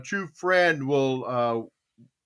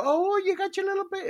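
put-on high, gushing baby-talk coo; doting dad; 4 dB quieter, faster than usual. Dad to little daughter about her doll, gushing. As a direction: coo over a child's doll. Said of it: "I go".

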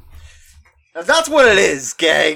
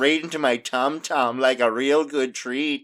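mock Canadian accent drifting Scottish; 2 semitones lower than usual. Joking about Tim Hortons with a friend, in a mock Canadian accent turning Scottish. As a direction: play a Canadian hoser craving donuts, slipping into a Scottish lilt. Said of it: "you're drifting into a Scottish".

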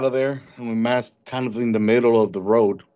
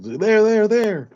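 urgent shout, much higher and louder; retold yell; 11 semitones higher, 3 dB louder, slower than usual. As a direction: call out sharply to warn the group. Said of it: "somebody yelled".

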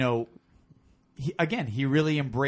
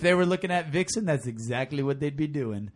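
Randy Savage voice. Acted. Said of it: "Now I'm doing my Randy Savage".

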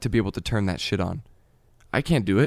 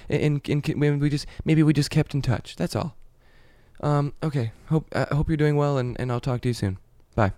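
hesitant, stumbling, a bit higher; awkward voicemail; 4 semitones higher than usual. Acted. Leaving an ex a voicemail, awkward and hesitant. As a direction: fumble through a message you're nervous to leave.

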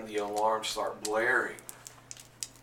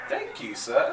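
much higher, silly polite voice; squeaky thanks; 4 dB louder than usual. Acted. Black Hand thanking Panther for the skirt, squeaky high. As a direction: pipe it up like a meek little villain. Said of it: "Black Hand goes".

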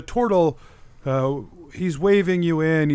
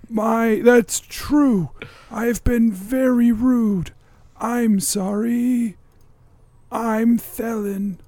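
slow turtle; 3 semitones higher, much slower than usual. Acted. Turtle introduces himself.

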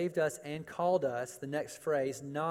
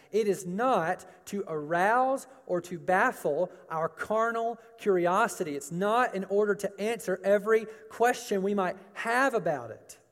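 higher-pitched, insistent preacher; emphatic preaching; 3 semitones higher, 4 dB louder than usual. Real, not acted. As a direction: press the point home from the pulpit. Preaches his point forcefully.

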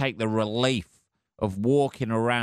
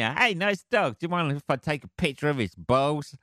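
higher, overly polite stranger asking a favour; chirpy pretend politeness to a dog owner; mock polite request; 4 semitones higher than usual. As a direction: play innocent asking the owner. Imagined asking the dog's owner.

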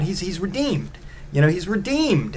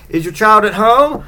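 higher-pitched mock Icelandic accent, rising on home; quicker second stab at a bad Icelandic accent; fake Icelandic accent; 6 semitones higher, 4 dB louder than usual. Yule lad asks at the window, fake Icelandic accent. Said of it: "whatever the island, Iceland accent is".

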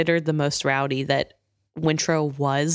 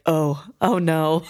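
laughing; slower than usual. Real, not acted. Reacting to the insult with laughter.

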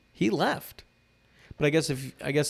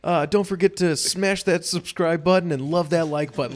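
much higher, much louder hyped channel intro; hype YouTuber; 4 semitones higher, 7 dB louder than usual. Retold or imitated. Prince Harry as a YouTuber hypes up his viewers, loud and high. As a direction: yell it like a vlogger greeting fans. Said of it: "you just see, like".

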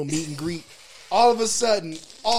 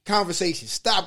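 normal talking voice

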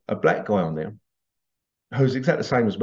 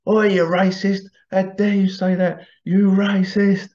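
higher, hammed-up indignant retort; mock outrage; 6 semitones higher than usual. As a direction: play at being outraged, drawing out the last words. Acted retort in workplace banter.

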